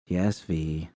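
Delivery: a light, brushing-off yes; dismissive tease. Acted. Judy shrugging off V's security nagging, mildly dismissive. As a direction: tease her by waving the warning away. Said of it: "I teased in a dismissive tone".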